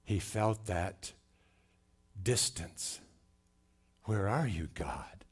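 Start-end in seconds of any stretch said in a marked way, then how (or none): 4.0-5.2 hushed, breathy call to God; forsaken plea. Acted. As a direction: let it drop away into a near whisper. Voicing Christ's distance from God.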